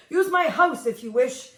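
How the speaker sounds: half-shouted offer; yelled. Acted. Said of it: "he yelled".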